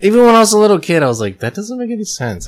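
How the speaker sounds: put-on high, fast little kid voice; childlike high voice. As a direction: squeak it like a small child. Acting out a childhood thought.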